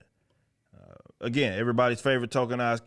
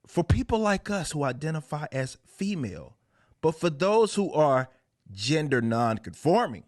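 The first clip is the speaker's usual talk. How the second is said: higher, halting mock recital; mock comic dialogue; 5 semitones higher than usual. Host reading out comic dialogue on identity, mocking high voice. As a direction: recite it pitched up with pointed pauses. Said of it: "and this is what they say".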